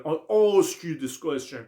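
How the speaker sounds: "ask" very slow with a long broad ah; British broad a. Shown as a demonstration. Teacher models British "ask" for the class. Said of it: "این آواهایی که آ داره".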